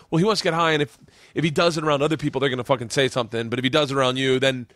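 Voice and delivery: lightly voiced wife, fast and matter-of-fact; imitating wife. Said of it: "She's like".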